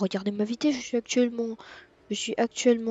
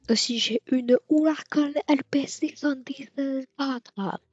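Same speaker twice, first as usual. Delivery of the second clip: higher, slow mock Italian accent on the car name; Italian accent attempt; 5 semitones higher, slower than usual. Shown as a demonstration. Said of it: "J'ai essayé de faire l'accent italien aussi".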